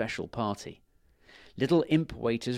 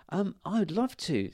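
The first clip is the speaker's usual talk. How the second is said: put-on little girl voice; 8 semitones higher than usual. Millie voiced by narrator.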